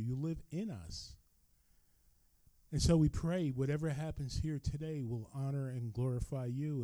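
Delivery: earnest pastoral prayer voice. Real, not acted. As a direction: pray aloud for the congregation. Pastor leads congregation in prayer.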